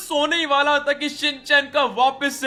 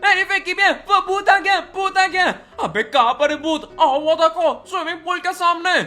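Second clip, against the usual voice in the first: put-on raised child voice, getting frantic; lightly voiced little boy in a panic; scared kid voice; 4 semitones higher than usual. Kids waking their big brother because of a ghost, frantic kid voice.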